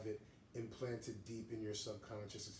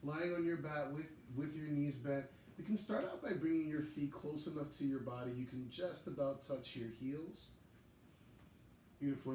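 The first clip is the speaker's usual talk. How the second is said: higher, louder teaching voice; yoga class instruction; 5 semitones higher, 5 dB louder than usual. Real, not acted. Yoga teacher guiding students into a reclined pose, projected instruction. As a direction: cue each movement clearly in a raised, projected voice.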